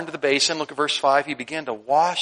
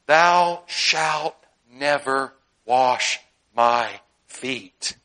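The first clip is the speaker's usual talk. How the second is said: stubborn refusal; 3 semitones lower, much slower than usual. Retold or imitated. Peter's refusal.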